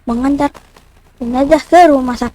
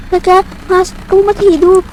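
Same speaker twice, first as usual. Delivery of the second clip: higher, startled disbelief; shocked; 5 semitones higher than usual. Real, not acted. Driver sees the corpse wake, high and startled. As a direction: blurt it out in shock.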